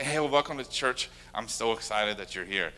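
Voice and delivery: easy, sincere greeting, easing down; real and natural, softening toward the end; natural welcome. Shown as a demonstration. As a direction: greet a newcomer without any fuss. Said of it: "just be real and natural".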